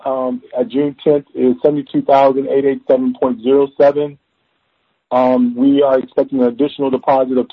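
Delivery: to someone hard of hearing. Real, not acted. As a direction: speak up so the back row hears. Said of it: "Can you speak up".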